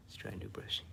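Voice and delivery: repeated in a whisper; whispered reminder to self. Real, not acted. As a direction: whisper it to yourself. Repeated under the breath.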